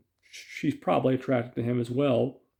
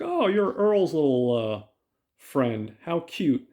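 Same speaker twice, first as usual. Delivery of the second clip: condescending, higher-pitched coo; faux-sweet put-down, pitched up on the key words; mock sweetness; 4 semitones higher, slower than usual. April sizing up Tully's new friend at the fry place, mock-sweet. April belittles Ella on introduction.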